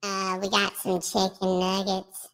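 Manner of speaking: filtered voice on stream. Acted. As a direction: keep the voice filter on. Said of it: "take the voice filter off".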